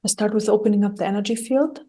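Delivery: calm, even meditation guidance with long pauses; guided meditation. Acted. Guide talking listeners through clearing their energy, calm guided meditation. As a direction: guide gently, leaving long silences between phrases.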